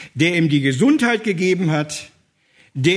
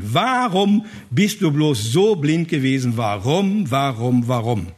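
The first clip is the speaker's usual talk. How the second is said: mildly pained, Jesus pleading; a touch of heartache, pleading; sorrowful reproach, understated. Acted. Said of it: "sagt das schon sehr, sehr schmerzvoll".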